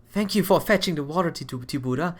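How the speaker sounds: slightly lifted, polite character voice; lightly voiced Miss Abby. Miss Abby thanking someone for fetching the water, lightly voiced and polite. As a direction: lightly put on a thankful girl's voice.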